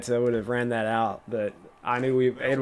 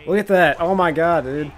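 amazed; 4 semitones higher, 5 dB louder than usual. Real, not acted. Amazed by another completion.

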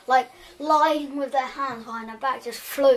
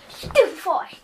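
shouted spells; 7 semitones higher, slower than usual. Acted. Luna firing hexes after the fleeing bully, shouting. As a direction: hurl each spell out at full voice. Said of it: "just goes".

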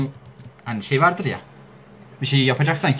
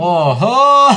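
high, loud drawn-out "oho"; exclaimed oho; 6 semitones higher, 9 dB louder than usual. Shown as a demonstration. Answering "Oho derken", a loud high exclamation. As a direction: call it out high and big.

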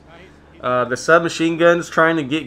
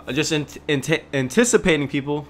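stumbling stutter on "anticipating"; tripping over the word; 2 semitones higher than usual. Real, not acted. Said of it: "Slurring my words here. Stuttering".

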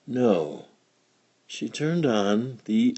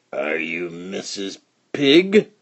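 slow, gruff wolf at the door; slow gruff stranger's voice; 2 semitones lower, slower than usual. Acted. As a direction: growl it out slowly like a disguised wolf. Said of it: "asked a gruff voice".

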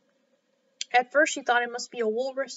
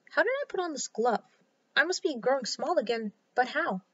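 puzzled surprise. Acted. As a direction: sound baffled by the glove. Alice puzzled by glove.

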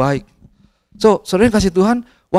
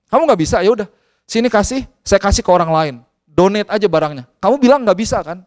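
lightly acted tough-love scolding; stern father; 2 semitones higher than usual. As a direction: imitate a firm dad laying down terms. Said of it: "saya suka agak keras memang". (menirukan ayah yang agak keras menegur)

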